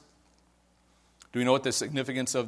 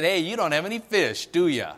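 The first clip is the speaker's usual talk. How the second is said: a light teasing jab in the question; a hint of mockery in "do ya"; mildly mocking; 4 semitones higher, 3 dB louder than usual. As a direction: tease them gently about the empty nets. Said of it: "almost mocking in a way".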